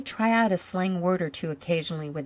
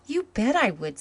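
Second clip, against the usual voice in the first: emphatic; 6 semitones higher, 4 dB louder than usual. A narrator's reading. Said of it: "said Jims emphatically".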